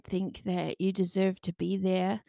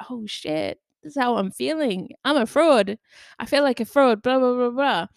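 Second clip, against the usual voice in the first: raised pitch, building louder into blah-blah; mock dismayed realisation; 5 semitones higher, 5 dB louder than usual. Reading back own journal feelings, mock dismayed. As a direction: rattle off the confession, higher and increasingly emphatic.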